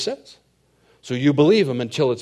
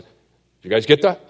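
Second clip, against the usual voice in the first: mock bragging; 2 semitones higher, 8 dB louder, much faster than usual. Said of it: "If he was bragging about it".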